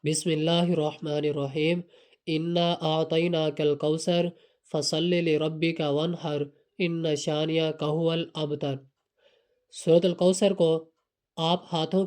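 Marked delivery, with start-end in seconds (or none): 0.0-8.8 measured Arabic recitation of a short surah; Quran recitation. Shown as a demonstration. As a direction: recite the verses evenly, pausing after each. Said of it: "سورۃ الکوثر کی تلاوت سماعت فرما لیں".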